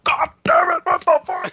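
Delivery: high, shocked cursing shout; dad jolted, swearing at the trucker; startled angry yell. Retold or imitated. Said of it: "And he was like".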